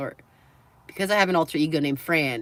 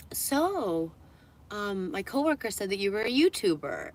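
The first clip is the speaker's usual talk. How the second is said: mock polite employee, pitched up at first; imitated store employee; 2 semitones higher, 4 dB quieter than usual. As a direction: tentatively probe as a shop assistant. Retold store employee making small talk.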